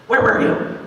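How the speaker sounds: sharp hissing whisper in the ear; furious teacher whispering through her teeth; hissed whisper. Retold or imitated. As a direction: hiss it right into the kid's ear. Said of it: "it was like a hiss in my ear".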